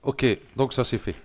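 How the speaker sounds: speaking while holding his breath; words squeezed out on a held breath. Real, not acted. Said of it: "je retiens ma respiration".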